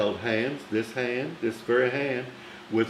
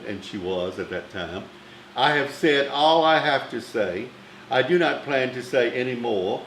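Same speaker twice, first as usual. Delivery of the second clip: imitating Bette Davis; 2 semitones higher than usual. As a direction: play the imperious star refusing. Bette Davis voiced on phone.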